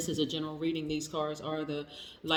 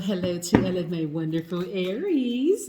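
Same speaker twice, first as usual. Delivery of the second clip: loud greeting; 7 dB louder than usual. Real, not acted. Tarot reader greeting her viewers.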